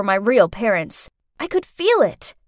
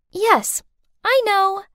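higher-pitched, sugary answer; sweet reply; 9 semitones higher, slower than usual. A narrator's reading. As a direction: answer sweetly through a grin. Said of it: "then sweetly grinned".

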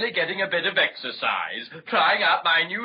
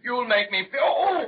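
self-pitying wail; 6 semitones higher than usual. Acted. Dragon pleading with the children for pity. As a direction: voice leaps higher into a wail.

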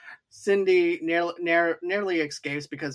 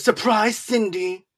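mock gleeful shout; 5 semitones higher, 3 dB louder, slower than usual. Stu voiced shouting surprise.

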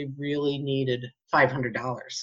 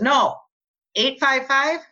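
higher, rising incredulous question; stunned disbelief; 8 semitones higher, 4 dB louder, slower than usual. Retold or imitated. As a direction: ask it like you can't believe it. Husband stunned by matching numbers.

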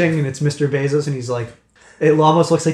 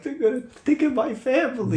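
defeated mumble; 10 semitones higher, 3 dB quieter than usual. Acted. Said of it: "he's like".

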